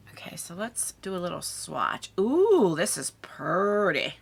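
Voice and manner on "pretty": drawn-out Southern "pretty"; Southern accent. Real, not acted. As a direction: stretch "pretty" into a slow Southern twang. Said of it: "I sound southern then".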